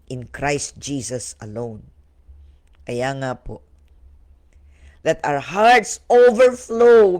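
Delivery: prayer. Acted. Leads prayer.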